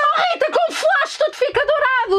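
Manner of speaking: high-pitched exasperated yell at her friend. Real, not acted. Shouting at Rita about the flash making everything golden. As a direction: shout it in disbelief, voice jumping up. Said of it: "Estás a gritar".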